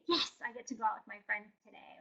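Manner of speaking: soft glad "Yes, I get to"; pleased and willing; happy agreement. Retold or imitated. Gladly agreeing to go out with friends, soft and happy. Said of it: "you say".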